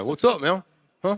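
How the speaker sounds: very high, loud frat bro voice. Describing the college frat boys they knew, doing a frat boy impression. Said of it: "the impersonation of every frat boy".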